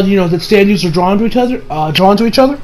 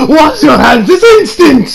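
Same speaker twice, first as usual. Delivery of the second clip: mock scolding; 5 semitones higher than usual. Mock stern command, retold.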